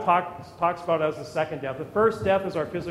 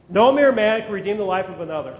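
faster, punchier repeat with the weight on mere; quicker restatement; 6 dB louder, faster than usual. Shown as a demonstration. Preacher repeating the verse to drive it home, brisk. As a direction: say it again briskly and land hard on mere.

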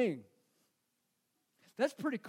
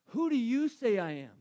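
the question pressed home, louder and firmer; louder challenge; 5 dB louder than usual. Acted. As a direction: put the question squarely to the crowd. Pastor repeating Jesus' question.

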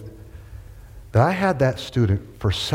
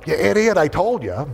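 higher-pitched I-told-you-so; gloating student; 6 semitones higher than usual. Retold or imitated. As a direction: imitate a vindicated kid. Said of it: "he went from a snarl to like".

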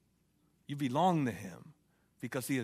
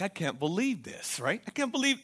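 excited; 6 semitones higher than usual. Retold or imitated. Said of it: "and he's actually excited".

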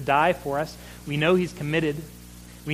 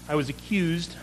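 ordinary talk, nothing marked

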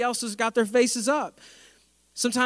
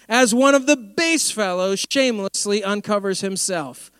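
sarcastic; 3 semitones higher, 5 dB louder, slower than usual. Retold or imitated. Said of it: "there's sarcasm in the Bible".

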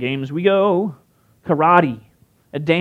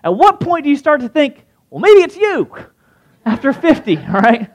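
higher, louder, lightly Southern comic voice; comedian's punchline; 8 semitones higher, 4 dB louder than usual. Retold or imitated. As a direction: land the joke deadpan then laugh. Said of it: "he said".

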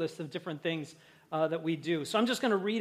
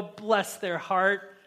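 sweet southern put-down; much slower than usual. Shown as a demonstration. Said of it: "it sounds nice, but it ain't".

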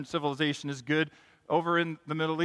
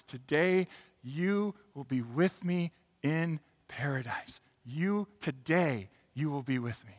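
gentle Jesus. Acted. Jesus answers the criminal gently.

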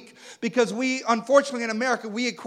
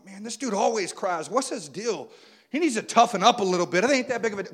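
mock scornful. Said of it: "No, I'm joking".

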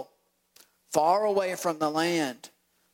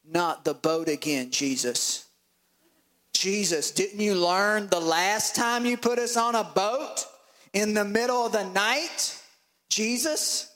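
complaining disciples, pitched higher, drawn out; whiny disciples; 4 semitones higher than usual. Acted. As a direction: moan at Jesus like a tired sailor.

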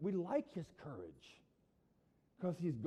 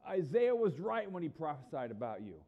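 forceful, louder public rebuke; railing; 6 dB louder than usual. Acted. Jesus railing against the Pharisees, worked up. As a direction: rail at opponents with a raised voice. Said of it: "railed against these guys".

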